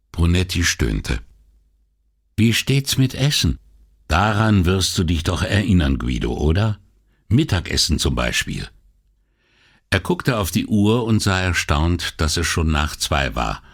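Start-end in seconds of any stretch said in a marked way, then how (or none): 2.4-8.7 teasing wife. Acted. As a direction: needle him gently as his wife. Wife teasing about lunch. (Ehefrau neckt ihren Mann, höhere Stimme)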